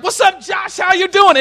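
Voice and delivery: high, loud hail; boisterous greeting. Acted. Friend walks up to greet Josh, boisterous. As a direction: hail your buddy at full volume.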